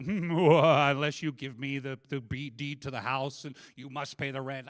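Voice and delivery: slow, mock cartoon villain; hammed-up villainous demand; Snidely Whiplash. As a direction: menace like an old melodrama landlord, loud start. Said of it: "like, Snidely Whiplash".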